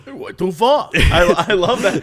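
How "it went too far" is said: mock Chicago catchphrase. Echoing the Chicago commercial impression.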